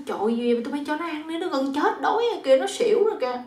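high-pitched mock alarm; alarmed urging. Mother-in-law sees the bird has fainted, acted alarm. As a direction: urge them on in acted alarm.

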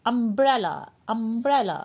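अम्ब्रेला opening on an UH sound, said carefully; short U demo. Shown as a demonstration. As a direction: show the अ sound at the start of अम्ब्रेला. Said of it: "यू का sound अ form में आ रहा है". (अम्ब्रेला को अ की आवाज़ से, साफ़ बोलते हुए)

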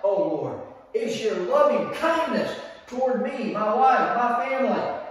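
fervent exclamation of praise; crying out to God. Acted. Preacher crying out to God for his family, fervent. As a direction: cry it out to God, full of feeling. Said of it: "I'm crying out to God with an exclamation point".

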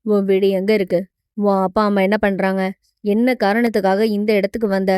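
low-voiced hero interrogating her; hero, questioning. (கதாநாயகனின் தாழ்ந்த குரலில் விசாரணை)

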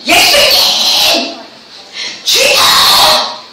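very slow, drawn-out high cry; crying out to God. Retold or imitated. Pastor reenacting her own desperate prayer, very slow high cry. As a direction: wail the name upward, stretching every syllable. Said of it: "맨날 부르짖었어".

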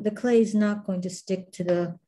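usual speaking voice

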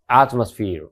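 atmosphereのaを強く; ゆっくり頭を強調; 先頭に強勢. Shown as a demonstration. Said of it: "やっぱり戦闘なので". (第一音節に強勢)

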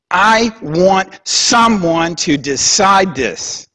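Job begging for someone to judge, pitched high; crying out. Retold or imitated. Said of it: "Job cries out and says".

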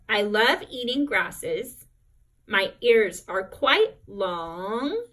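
expressive read-aloud. Shown as a demonstration. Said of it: "model how to do that".

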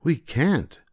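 put-on high children's voice; children refusing the witch at the window, high; children calling.

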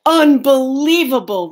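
loud, exasperated bear; indignant bear exclamation; rumbling. A narrator's reading. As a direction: blurt it out in disbelief. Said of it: "rumbled Bear".

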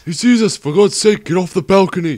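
desperate, alarmed yelling; panicked shouting. Acted. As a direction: yell at him to get moving now. Tank spots them, frantic urging.

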